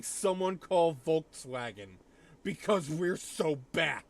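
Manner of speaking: put-on German accent. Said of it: "you hear a German accent".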